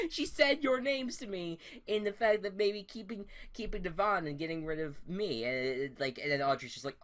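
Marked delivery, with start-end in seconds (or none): 0.1-5.4 mock shout. The speaker confronting Vanessa, continued.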